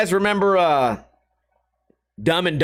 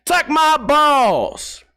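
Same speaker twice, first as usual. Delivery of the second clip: high, loud, very slow insult; mock tough shout; 8 semitones higher, 4 dB louder, much slower than usual. Gladiator ending his speech with a crude insult, loud slow mock. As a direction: drag it out like a hammed-up gladiator.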